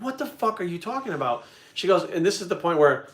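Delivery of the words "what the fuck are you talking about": baffled outburst. Retold or imitated. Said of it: "I'm like".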